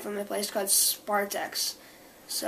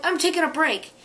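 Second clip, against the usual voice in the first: mock protest; 6 semitones higher, 3 dB louder than usual. Acts own answer to mom.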